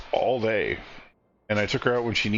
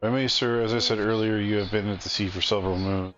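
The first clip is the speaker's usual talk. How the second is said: weary refugee leader; 2 semitones lower than usual. Acted. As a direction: beg humbly as a worn-out leader of starving people. Reads the refugee leader's plea.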